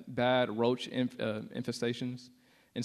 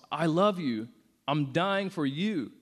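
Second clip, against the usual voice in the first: louder retold cry of love; impassioned declaration; 3 semitones higher, 4 dB louder, slower than usual. Jesus on the cross to the atheist, impassioned retold declaration. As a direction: declare it with feeling, slowing on the last words. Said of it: "as he's on the cross".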